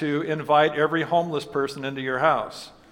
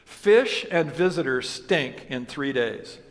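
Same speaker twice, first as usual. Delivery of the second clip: slow quoted proverb; 3 semitones lower, slower than usual. Retold or imitated. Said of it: "Poor Richard's Almanac said".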